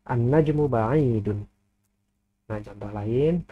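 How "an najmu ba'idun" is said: slow, deliberate Arabic example read for students; careful teacher's slow demo of "An-najmu ba'idun"; slow model reading. Shown as a demonstration. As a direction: say each syllable slowly and clearly. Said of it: "nunnya dibaca tasydid".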